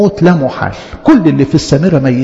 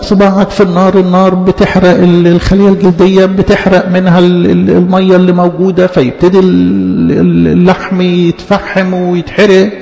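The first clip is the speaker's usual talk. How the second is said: monotone mock explanation with stretched hesitations; droning explainer. Preacher acting someone explaining the burnt finger, droning hesitantly. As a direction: drone on evenly, stalling on each article.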